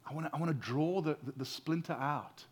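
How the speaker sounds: put-on calm a child while you pull the splinter; soothing parent. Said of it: "And he's saying".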